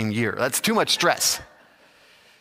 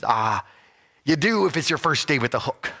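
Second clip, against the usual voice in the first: pirate voice; 3 semitones higher than usual. Acted. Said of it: "in his piratey voice".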